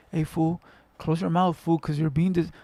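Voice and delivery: soft polite nudge to a friend; polite version. Shown as a demonstration. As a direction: ask him nicely, quietly. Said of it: "I'm not gonna be polite to you like".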